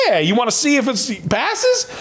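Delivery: high, put-on voice for the tester; retold tester's reply. Tester answering the nervous donor, high-pitched imitation.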